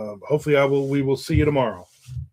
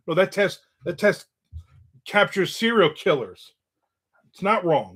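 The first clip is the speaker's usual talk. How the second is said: higher-pitched, insistent comeback; mock exasperated; 6 semitones higher than usual. Son defending the test to mom, mock exasperated. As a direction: re-enact arguing the point with mom. Retold argument over DNA test.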